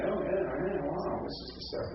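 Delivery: high, acted-out realisation; hearers' recognition. Teacher voices hearers spotting an accusative, impressed recognition. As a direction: play an audience catching on with interest. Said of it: "they say".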